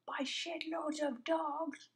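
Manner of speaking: slow, high breathy whisper; playful spooky whisper. Real, not acted. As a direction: creep it out slowly. Whispered joke.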